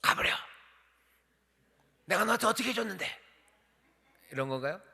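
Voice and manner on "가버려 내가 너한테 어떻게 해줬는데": furious shout, pitched up high; angry Elijah. Shown as a demonstration. Preacher shows an angry Elijah dismissing Elisha. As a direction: bark it at him in anger. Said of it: "분노했을까요?".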